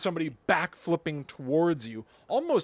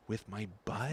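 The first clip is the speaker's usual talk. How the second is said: low, soft coded aside; imitating someone murmuring in code; under the breath; 6 semitones lower, 9 dB quieter than usual. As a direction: drop the voice to a discreet mumble. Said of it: "under my breath".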